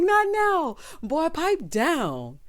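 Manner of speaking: high, loud mock scolding through laughter; laughing rebuke. Host re-enacting the rebuke to Maurice, laughing and loud. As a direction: repeat the telling-off while cracking up. Repeats rebuke while cracking up.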